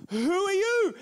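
high, sharp echo back; defensive echo. Retold or imitated. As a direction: throw the question back. Driver answers back.

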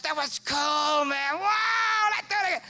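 excited cartoon brain; brain's voice. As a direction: play the brain egging him on. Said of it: "the brain's like".

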